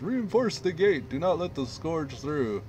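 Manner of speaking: mock yell. Commander ordering troops to hold the gate, mock yell. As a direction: call out to defenders on the wall. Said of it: "High Commander Warbrain yells".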